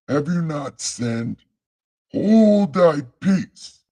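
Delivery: a hint of a booming prophet; mock biblical prophet. Rereading the scripture line.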